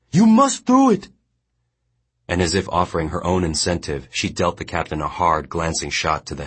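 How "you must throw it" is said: high, loud barked order; commanding. A narrator's reading. Mongnan commanding the boy to throw the stone. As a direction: order him to strike now. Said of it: "she commanded".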